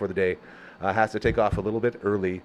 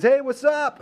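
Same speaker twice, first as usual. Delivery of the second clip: high, louder cheerful dog greeting; dog Leroy voice; 13 semitones higher, 4 dB louder, slower than usual. Retold or imitated. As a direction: voice the shop dog saying hi. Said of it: "Leroy says".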